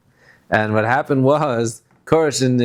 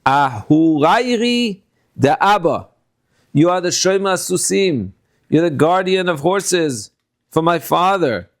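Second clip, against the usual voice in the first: high, slow mocking taunt of the king; slow, high mock from the queen's message; 5 semitones higher, slower than usual. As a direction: sneer it down at him like a scornful queen. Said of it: "Making fun of him".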